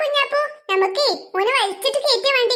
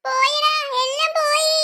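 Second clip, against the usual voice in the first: crying lament; slower than usual. Acted. Child laments, slow crying.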